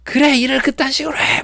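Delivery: high mock shout at a coworker; retold shouting. Coworker yelling over a requested fix, high shout. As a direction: yell it out as the angry coworker. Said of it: "소리를 막 지르면서".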